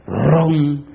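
drawn-out rolled "rrron" noise; imitated drawer rumble. Lad opens a drawer at the library, imitated rumble. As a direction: mimic a drawer sliding open.

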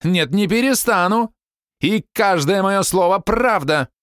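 wife defying her friend's plea; defiant shout. A narrator's reading. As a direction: refuse to back down, slowly. Zilla refusing to stop.

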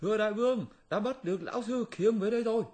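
high, quick giggling imp; squeaky laughing little demon; goblin minion voice. Acted. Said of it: "rồi cho một tên vào báo".

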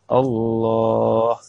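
الله with the lam held very long and slow; long lam in Allah. Shown as a demonstration. Teacher demonstrating a long lam in الله to students. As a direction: stretch the lam of الله out slowly. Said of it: "وتنعقد إن مد اللام".

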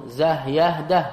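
زه يهده as short syllables closed with h; letter sounds. Shown as a demonstration. Teacher spelling Zayd by sound, زه يهده in short syllables. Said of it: "هذا الصواب".

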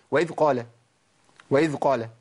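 وإذ قال with the ذ of وإذ almost gone; swallowed dhal. Shown as a demonstration. Teacher mimics how people say it: ذ lost. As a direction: rush past the ذ in وإذ so it vanishes. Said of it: "فين الذال يا عم".

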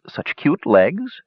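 slow giggly tease, pitched high; drawn-out flirty giggle; giggling. A narrator's reading. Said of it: "came the giggling voice".

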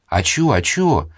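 slow, lightly voiced village granny; an old woman asking eagerly what happened; curious old woman. A narrator's reading. Old neighbour Galya asking what the fuss is about, lightly voiced.

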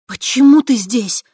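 high, loud demanding cry; alarmed high shout; upset demand. Acted. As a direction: fling the question at him. Girl demands why he came.

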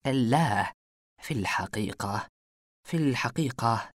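halting, nervous repeats; stammering. Acted. Saleh stammers when questioned by the detective. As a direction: stumble over في الحقيقة twice. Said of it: "قال صالح بتلعثم".

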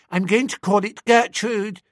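put-on high, childish chatter; little girl voice. A narrator's reading. Narrator voicing the little girl who names her doll. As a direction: pipe it like a small girl.

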